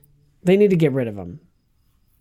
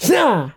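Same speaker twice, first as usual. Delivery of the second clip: fake sneeze; 8 semitones higher than usual. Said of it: "Just kidding".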